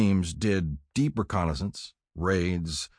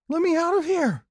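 put-on high-pitched child's yell; panicked shout; 4 dB louder than usual. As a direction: shout to be let out of a dark box. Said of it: "I shouted".

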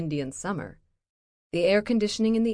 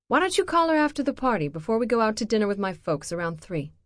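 irritated; 5 semitones higher, 4 dB louder, faster than usual. Acted. Dana, tired ex-wife.

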